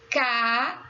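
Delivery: "caderno" in three stretched syllables. Shown as a demonstration. Teacher telling pupils to observe, "caderno" syllable by syllable. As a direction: break "caderno" into ca, der, no with gaps.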